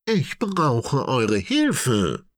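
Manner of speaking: slow big-elephant appeal; asking for help. A narrator's reading. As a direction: spell it out so everyone hears. Tanja asks elephants for help.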